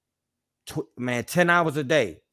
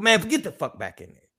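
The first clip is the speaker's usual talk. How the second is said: higher-pitched mock guard order; guard ordering him back; 6 semitones higher than usual. Guard sending a prisoner back, imitated angry order. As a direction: imitate a guard cutting in sharply. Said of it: "this how you get talked to".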